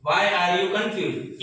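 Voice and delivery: very slow, word-by-word classroom demo; very slow model question. Shown as a demonstration. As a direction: stretch every word for learners to copy. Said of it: "આવું પૂછવું હોય". (ખૂબ ધીમો, સ્પષ્ટ પ્રશ્ન)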